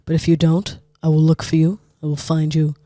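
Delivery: spaced-out, measured ultimatum; deaf Liam Neeson. Acted. Giving the kidnapper a final ultimatum, low and measured. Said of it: "Sounds like a Death Liam Neeson".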